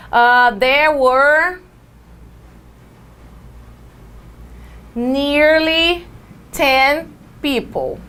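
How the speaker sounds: "there were nearly ten people" drawn out slowly; slow model English. Shown as a demonstration. Teacher modelling the example for students, slow. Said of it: "uma pergunta que mostra uma quantidade".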